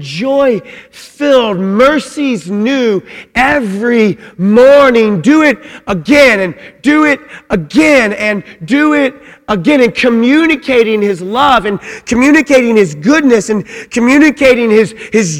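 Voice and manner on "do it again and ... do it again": exuberant repetition. Acted. Preacher voicing God's delight in creation, joyful and rising. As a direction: let it swell with delight.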